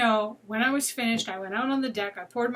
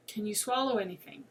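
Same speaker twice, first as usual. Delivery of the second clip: calm question; 5 dB quieter than usual. Retold or imitated. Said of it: "very calmly".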